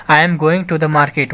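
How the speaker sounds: very slow, word by word; slow teacher reading; slow dictation. Shown as a demonstration. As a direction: spell it out slowly for the class. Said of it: "teacher repeats example sentence".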